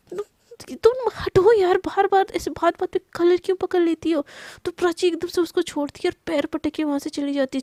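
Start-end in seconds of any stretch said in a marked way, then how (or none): 0.1-4.3 louder, higher, pushing her away; loud annoyed protest. Acted. Husband loudly protests wife grabbing his collar. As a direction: snap at her to move. Krishna shoves off collar grab.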